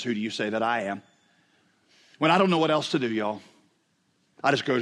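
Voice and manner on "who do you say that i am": softer, lower, gently asked; quiet Jesus quote. Retold or imitated. Preacher quoting Jesus to a crowd, softly asked. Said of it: "When Jesus looked at a group of people and says".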